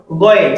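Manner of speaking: "Going" as Arabic Ghayn, said ghoyn; correct Ghayn pronunciation. Shown as a demonstration. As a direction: model "Going" for learners to repeat. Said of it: "the correct pronunciation is what".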